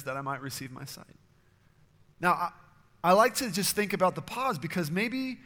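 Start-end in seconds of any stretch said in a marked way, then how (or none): 0.0-1.1 quiet plea. Retold or imitated. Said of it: "Bartimaeus says".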